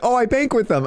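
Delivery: squeaky voice for friend; high mock Jay. Mocking his teammate saying he banks there, high squeaky voice. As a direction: pitch the friend way up.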